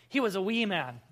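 light Scottish accent; a touch of Scottish accent. Shown as a demonstration. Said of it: "a little Scottish accent here".

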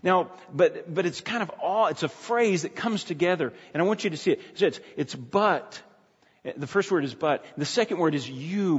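ordinary talk, nothing marked

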